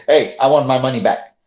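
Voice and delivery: blunt, demanding request; rude demand. Shown as a demonstration. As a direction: demand your money back rudely. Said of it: "now look at my tone when I say".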